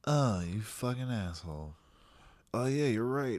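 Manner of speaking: ordinary talk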